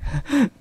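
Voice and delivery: short high sobbing breath; acted sob. A narrator's reading. Mother breaking off her account to her daughter, acted sob. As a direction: sob briefly between sentences. Mother crying as she tells it.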